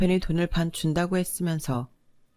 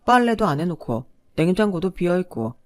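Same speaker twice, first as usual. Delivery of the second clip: a mildly louder sneer, needling and scornful; sneering husband; 3 dB louder than usual. Acted. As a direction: jab at her with a mocking, belittling edge. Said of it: "저를 보기만 하면 빈정거렸어요".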